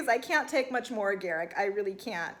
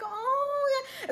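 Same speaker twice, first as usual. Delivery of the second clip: mock sympathetic coo; 13 semitones higher, 3 dB quieter than usual.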